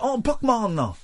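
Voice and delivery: "Oh, Pokemon" pitched high and hammed up; Pac-Man creator impression. Host redoing the inventor's line to his co-hosts, hammed-up. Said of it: "that is actually a brilliant impression".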